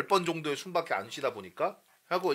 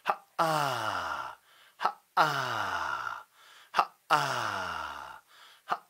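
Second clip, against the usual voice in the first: lower, very slow, shaking 하, 아; staccato then vibration; 8 semitones lower, 4 dB quieter, much slower than usual. Shown as a demonstration. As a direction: hit then let it shake. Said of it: "스타카토 후에 진동".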